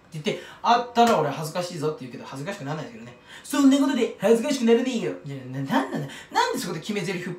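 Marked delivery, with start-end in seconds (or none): 3.4-5.1 louder, punchy self-styled catchphrase; catchphrase delivery. Pretend. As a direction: land it like a cool signature line. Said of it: "決め台詞っぽい感じで言うんだよ".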